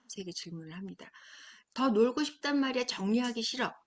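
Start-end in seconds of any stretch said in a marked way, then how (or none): 1.7-3.7 높고 큰 목소리로 투정 부리는 아이; 더 놀고 싶다고 우기는 꼬마처럼; 떼쓰는 아이. Acted. 아이가 떼쓰는 장면. (엄마에게 더 놀고 싶다고 떼쓰는 아이, 큰 목소리로)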